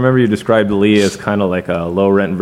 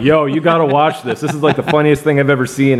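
eager, higher-pitched pitch to a friend; retold excitement; 5 semitones higher than usual. Showing Lee a favourite video, retold excitedly. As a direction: recreate an excited "you have to see this". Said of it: "I was so excited".

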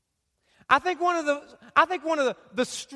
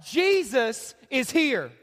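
slow, drawn-out declaration; declared out loud; much slower than usual. Shown as a demonstration. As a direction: proclaim it slowly for all to repeat. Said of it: "Let's all say it out loud".

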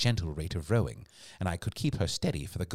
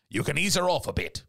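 higher-pitched sailor's advice; crewman calling out; 7 semitones higher than usual. A narrator's reading. Crewman advising the man steering, raised voice. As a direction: call out advice to the helm.

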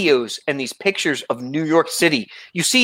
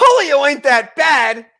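much higher, louder, slow disbelief; incredulous echo; 9 semitones higher, 5 dB louder, slower than usual. Real, not acted. To his friend, echoing in loud slow disbelief. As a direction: repeat it like you can't believe it.

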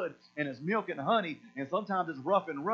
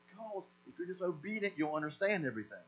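gentle God; 6 dB quieter than usual. Retold or imitated. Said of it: "And God's like".

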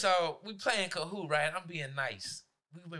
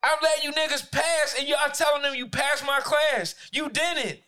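higher, louder furious rant; angry shout; 7 semitones higher, 6 dB louder than usual. Retold or imitated. Teacher yelling at a student who lied about passing, furious. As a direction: let him have it.

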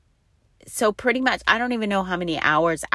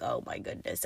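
breathy whisper of exasperation, much softer; whispered aside; 5 semitones lower, 13 dB quieter than usual. Retold or imitated. Mom realizing the false alarm, whispered. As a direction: whisper it under your breath, half laughing. Realizes the water didn't break.

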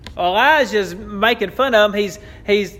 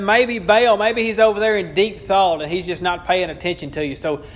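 mocking; 3 semitones higher than usual. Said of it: "he's mocking them".

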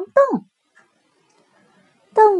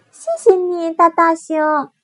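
high, loud grateful cub; a small cub saying thanks; little bear voice; 6 semitones higher, 7 dB louder than usual. Acted.

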